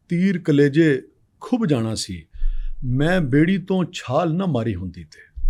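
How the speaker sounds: measured poetic recital, lines repeated; nazm recitation. Acted. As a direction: recite the poem with feeling, pausing between lines.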